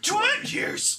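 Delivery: very high put-on verdict; mock judge's sentence. Echoing the sentencing bit, high squeaky judge. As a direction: squeal the penalty out.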